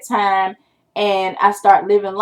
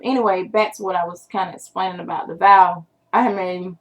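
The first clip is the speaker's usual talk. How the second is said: talking while chewing gum; words round a piece of gum. Real, not acted. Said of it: "let me get rid of this gum".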